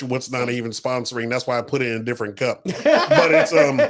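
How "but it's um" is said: laughing out the words; giggling through it. Real, not acted. Laughing about his drink.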